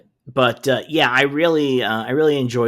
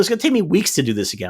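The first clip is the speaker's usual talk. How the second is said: annoyed quote; 4 semitones higher, faster than usual. Retold or imitated. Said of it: "He's super mad".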